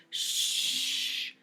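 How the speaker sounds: soft breathy hush; whispered shush. A narrator's reading. Teacher hushing a noisy Allison, whispered shush. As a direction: shush her quietly. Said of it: "she whispered".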